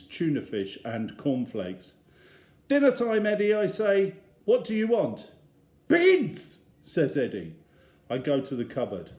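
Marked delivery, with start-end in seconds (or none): 2.7-5.3 calling out. Acted. Dad calling cheerfully. 5.9-6.6 put-on high, loud, wailing toddler chant; toddler screaming. Little Eddie screaming for beans in the supermarket.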